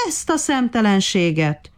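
a mild narrated cry of indignation; exclaiming. A narrator's reading. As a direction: exclaim in outrage without full shouting. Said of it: "kiáltotta".

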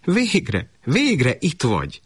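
high-pitched, falling "at last"; mother's long-awaited greeting, pitched high; relieved welcome. Acted. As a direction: draw out the joyful welcome, high then falling. Mother greets returning son.

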